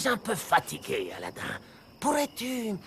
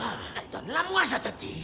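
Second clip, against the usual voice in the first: demanding through a sly chuckle; menacing laugh; 4 semitones higher, 3 dB quieter than usual. Acted. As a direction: laugh darkly while ordering. Villain demands lamp, laughing.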